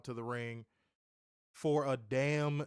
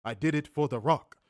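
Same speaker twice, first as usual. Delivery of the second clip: lightly mimicked Samoan accent, punched out; mock Samoan wrestler delivery; Rikishi; 4 dB louder than usual. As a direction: imitate a Samoan wrestler's choppy speech. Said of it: "They all sound like Rikishi".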